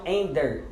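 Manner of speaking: "enter" with a D-like stop after the N; sounded consonant, not used. Shown as a demonstration. Teacher shows a second wrong "enter", stop kept. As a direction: say "enter" as "ender". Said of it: "eles não pronunciam enter".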